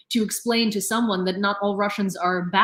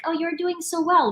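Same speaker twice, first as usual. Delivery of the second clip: higher-pitched mock patting on the head; mock praise; 7 semitones higher than usual. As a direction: imitate gushing, patronising praise. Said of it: "pat them on the head and be like".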